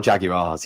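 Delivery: Jaguars said in plain London English; British Jaguars. Shown as a demonstration. Londoner owning his British Jaguars, JAG-yoo-ahz. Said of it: "which sounds very British".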